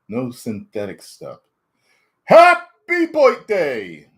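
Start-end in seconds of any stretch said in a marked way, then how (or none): 2.3-4.1 high, slow, loud birthday cheer; excited cheer. Real, not acted. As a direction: sing it out with joy. Birthday greeting to viewer.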